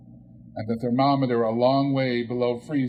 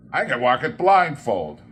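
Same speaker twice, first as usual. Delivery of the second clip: fervent; 7 dB louder than usual. Acted. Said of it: "cried Scrooge with fervor".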